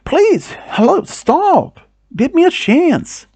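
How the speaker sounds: mock desperate calling after her; yelling. Creep chases her on the beach, high mock yell.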